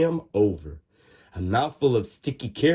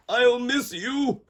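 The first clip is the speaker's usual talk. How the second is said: high, slow little voice; sadly miss your home; tender goodbye; 11 semitones higher, slower than usual. Acted. Tooth says goodbye to gums.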